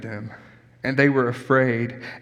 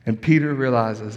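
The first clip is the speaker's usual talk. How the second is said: ordinary talk, nothing marked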